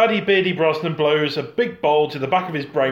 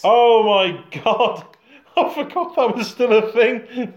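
sudden realisation; 7 semitones higher, 5 dB louder, slower than usual. Real, not acted.

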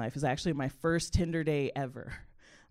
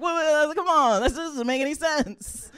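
mock disbelief; 9 semitones higher than usual. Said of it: "I'm like".

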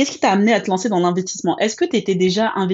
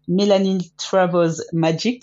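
Melanin Travels Magic said the English way, a little slower; English accent; slower than usual. Real, not acted. Host naming the guest's travel agency, in an English accent. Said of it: "désolée pour mon accent".

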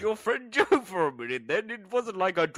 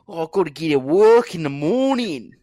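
1 loud fed-up moan; 10 dB louder than usual. Retold or imitated. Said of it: "They go".

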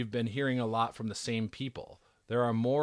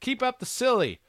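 excited; 12 semitones higher, 5 dB louder than usual. Acted. Reading fan letter excitedly.

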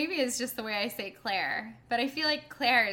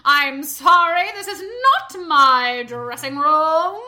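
loud, slow grand diva voice; loud theatrical diva, slowly; a Broadway belter meets Betty Davis; 3 semitones higher, 13 dB louder, much slower than usual. Retold or imitated. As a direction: play an offended old Hollywood star. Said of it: "like a Broadway belter meets Betty Davis".

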